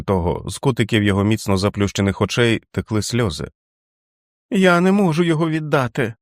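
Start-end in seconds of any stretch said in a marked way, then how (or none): 4.5-6.1 put-on high tearful child's voice, much higher; a five-year-old pleading through tears. A narrator's reading. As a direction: whimper it like a frightened small boy. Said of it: "казав Річард сльозливим, враженим голосом п'ятирічної дитини".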